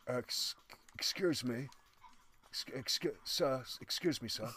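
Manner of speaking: hushed, slow, hesitant whisper; nervous whispered excuse me, stumbling; timid whisper. Retold or imitated. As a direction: whisper it shyly through the stall door. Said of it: "sounds like this".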